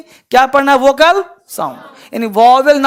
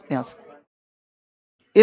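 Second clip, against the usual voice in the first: यहाँ से stretched out very slow and low; deep from the throat; 11 semitones lower, 8 dB quieter, much slower than usual. Shown as a demonstration. Teacher showing students where the voice comes from, slow and low. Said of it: "आप बोलते कहाँ से हो?".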